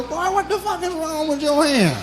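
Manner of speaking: father's stern yell; angry father. Retold or imitated. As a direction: bark like a suspicious dad. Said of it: "My father go".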